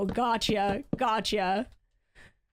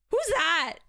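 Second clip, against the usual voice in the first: put-on old boomer; 6 semitones higher than usual. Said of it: "Like an old boomer would".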